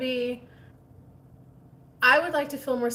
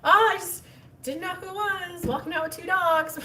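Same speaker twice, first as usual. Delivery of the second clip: higher, louder flustered babble; 8 semitones higher, 4 dB louder than usual. Retold or imitated. Retelling bumping into the neighbor, flustered. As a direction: gush it out embarrassed.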